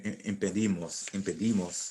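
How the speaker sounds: teacher's correction stressing impedimos on -di-; stress shown on impedimos. Shown as a demonstration. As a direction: lean on the -di- in impedimos to show where the accent goes. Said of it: "That's where your accent would go".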